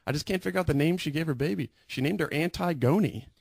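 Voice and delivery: high, gushing office-lady impression; imitating excited coworker. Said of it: "she was really excited".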